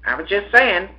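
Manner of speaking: put-on high-pitched small boy; apologetic. A narrator's reading. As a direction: back down meekly in a kid's voice. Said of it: "apologized the smaller boy".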